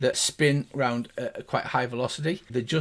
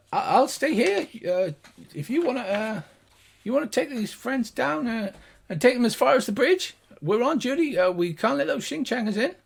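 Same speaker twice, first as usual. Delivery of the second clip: high-pitched gnome guard; hesitant little guard, pitched well up; gnomish voice; 8 semitones higher than usual. Acted. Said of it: "the two high-pitched gnomish voices".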